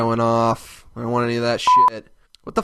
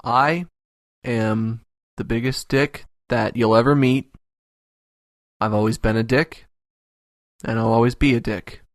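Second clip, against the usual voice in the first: dramatic proclamation; 3 semitones lower than usual. Acted. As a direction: declare it like a villain. Dramatic low self-declaration.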